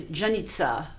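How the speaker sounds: Janitza said Italian style, Ya-neet-sa; Italian version. Shown as a demonstration. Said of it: "In Italiano".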